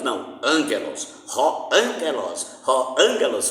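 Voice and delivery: angelos stressed on the first syllable AN; teacher's pronunciation. Shown as a demonstration. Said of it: "como eu ensino". (angelos com tônica na primeira sílaba)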